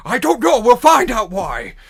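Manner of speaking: high, loud orc yell. Acted. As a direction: yell it back across the crowd. Orc yelling back.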